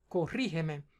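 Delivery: Corrígeme with the stress on RRÍ; antepenultimate stress. Shown as a demonstration. Tutor showing where the word's force falls, stressed on RRÍ. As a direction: lean on the í of Corrígeme, then fall away. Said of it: "Tiene la fuerza de la pronunciación en la antepenúltima".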